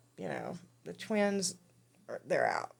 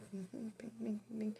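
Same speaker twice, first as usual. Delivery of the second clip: soft, quiet little alarm pings; small softly voiced pops; imitated popping noise; 3 semitones higher, 9 dB quieter than usual. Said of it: "this loud popping noise".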